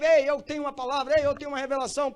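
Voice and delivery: loud, high, urgent preaching voice; eager calling out. Acted. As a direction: burst in as an eager churchgoer. Acts out eager member with a word. (chamando com entusiasmo, alto e agudo)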